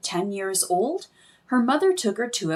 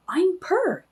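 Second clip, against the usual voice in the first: tiny voice; 8 semitones higher than usual. Acted. Tiny figure introduces itself.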